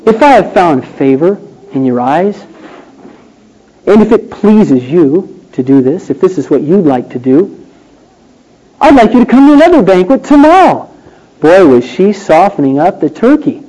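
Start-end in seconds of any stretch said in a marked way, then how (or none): 0.0-10.9 woo him gently; gentle and gracious. Pretend. Esther inviting the king, gentle and gracious. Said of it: "with a gentle, gracious spirit".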